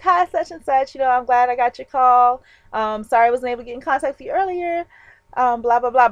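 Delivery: bright, upbeat phone greeting, pitch up; peppy callback. Retold or imitated. Calling the recruiter back, peppy and upbeat. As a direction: cheer him up with pep. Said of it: "with my peppiness".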